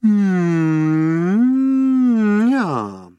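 lightly voiced contented door; a pleased little sigh from the door; satisfied door sigh. A narrator's reading. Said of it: "satisfied, sigh-like quality".

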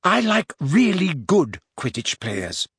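high, slow, smug smile in the voice; smiling correction. A narrator's reading. Hermione correcting Parvati within Ron's hearing, smiling smugly. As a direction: correct her sweetly, stretching the words. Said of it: "Hermione corrected her, still smiling".

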